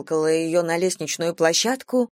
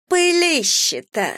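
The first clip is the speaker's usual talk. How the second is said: high, slow scornful drawl; disdainful, drawn-out high exclamation; contemptuous drawl; 8 semitones higher, slower than usual. A narrator's reading. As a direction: sneer it out long and high. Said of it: "презрительно протянула Валерия".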